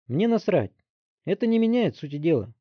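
put-on high, loud scornful boy; dismissive teen. A narrator's reading. Teen brushing off his friend, dismissive. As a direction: shrug it off rudely.

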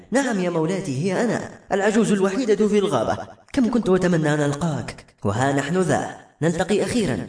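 bow to your queen with your voice; reverent old woman. Acted. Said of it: "وقالت بإجلال".

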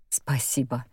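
plain reading voice

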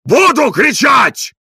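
stretched-out furious howl; yelling. A narrator's reading. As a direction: howl it in defiance. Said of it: "вопил Тарантьев".

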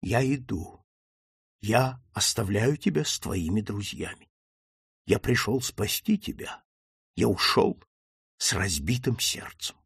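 put-on subdued, halting old father; broken-hearted farewell with long pauses; understated quaver, phrase by phrase; trembling voice. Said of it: "дрожащим голосом".

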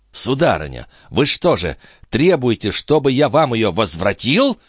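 understated anger, climbing in pitch; trembling with anger. A narrator's reading. Police chief challenging the countess, understated anger. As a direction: demand it with restrained outrage. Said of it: "трясясь от злости".

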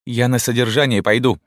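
высокий, громкий истерический выкрик; кричи в истерике, срываясь; истерический крик. A narrator's reading. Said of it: "истерически закричала Рима". (Рима истерически кричит на мать)

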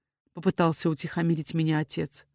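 usual speaking voice

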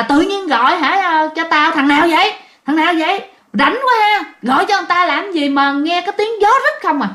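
mock irritated telling-off; retold scolding. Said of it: "Thì ổng mới chửi".

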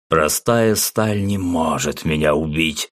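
slow, lifeless monster voice; dead voice. Acted. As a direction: speak like the walking dead. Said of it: "таким же мёртвым голосом заявил".

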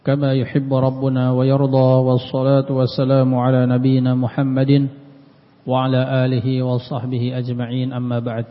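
fast, even-pitched Arabic recitation; opening invocation. Acted. Teacher opening a religious class with praise, formal recitation. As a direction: recite the praise formula quickly and evenly.

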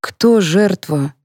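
very slow, indifferent question; a bored officer going through the motions; listless. Acted. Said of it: "вяло поинтересовался полицейский".

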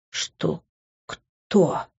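breathless shocked whisper. A narrator's reading. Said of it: "прошептал он".

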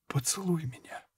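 soft unvoiced plea, barely there; whisper. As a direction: breathe it out to him. Dying woman asks softly. (раненая просит Рутгера шёпотом: тихий шёпот)

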